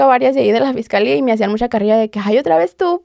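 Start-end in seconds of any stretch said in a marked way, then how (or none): 2.2-3.0 playful mock exasperation, higher pitch; joking tease. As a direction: tease her like a familiar face. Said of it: "pero así como en broma". (en tono de broma, burlón)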